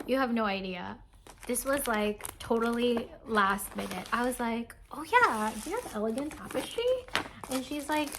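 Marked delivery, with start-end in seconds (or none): 4.9-6.8 lightly acted higher-pitched asking; retold eager question. Buyer asking seller for a kit, retold eagerly. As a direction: replay a casual ask, pitched up.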